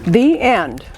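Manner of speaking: put-on lively read-aloud for kids; storytime reading. Librarian reading a picture book to children, lively. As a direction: tell it like a picture book to little ones.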